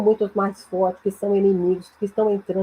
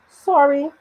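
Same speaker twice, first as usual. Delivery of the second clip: "Sorry" pitched up as a question; higher, louder questioning "Sorry"; 4 semitones higher, 5 dB louder than usual. Shown as a demonstration. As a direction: ask "Sorry" as if you didn't hear. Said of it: "num tom de pergunta".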